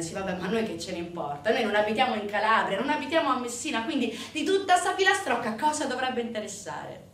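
quick, impatient objection from the crowd; rapid dismissive heckle, rising as it goes; sceptical audience member. Acted. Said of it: "ora scommetto che vi starete chiedendo".

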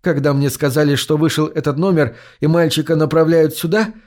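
plain reading voice

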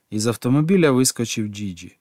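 ordinary delivery

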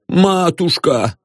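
melting, pleading address; touched, tender. A narrator's reading. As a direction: draw it out adoringly. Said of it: "умилился отец Фёдор".

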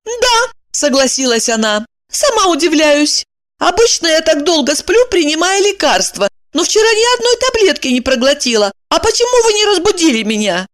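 high-pitched woman's voice; Evdokia's voice. A narrator's reading. Evdokia explaining her sleep to Kirillov, high voice. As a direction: voice her high, a little anxious.

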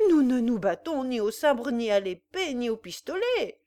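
loud, booming defiance; a roaring peasant's challenge; thundering voice. Acted. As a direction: thunder it at the dandy. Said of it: "s'écria Bluty d'une voix tonnante".

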